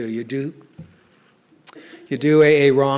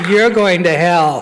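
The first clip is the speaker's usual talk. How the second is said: mock judgment; 2 semitones higher, 6 dB louder, slower than usual. Catholic guilt flares at sponsor.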